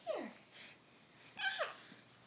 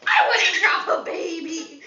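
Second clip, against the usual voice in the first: shouting through laughter; laughing shout; 2 semitones lower, 5 dB louder, slower than usual. Real, not acted. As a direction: laugh while yelling it. Playful back and forth with baby.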